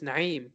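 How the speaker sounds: "Naeem" with Arabic ayn before the long EEM; "Naeem" as na'EEM, throat sound in the middle; correct pronunciation. Shown as a demonstration. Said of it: "but no, my name is".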